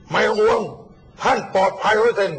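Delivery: imitating a booming, emphatic promise; loud reassurance. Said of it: "ดังน่ากลัวมาก". (เลียนเสียงรับปากดังลั่น)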